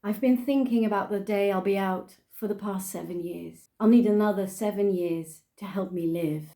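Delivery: put-on English-accented verse reading; measured put-on English accent. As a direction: recite the poem in an English accent. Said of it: "I'm gonna do it in an English accent".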